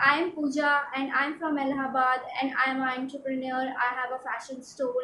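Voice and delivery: brisk, friendly greeting to a new contact; sample self-introduction. Shown as a demonstration. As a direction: introduce yourself quickly as if meeting someone.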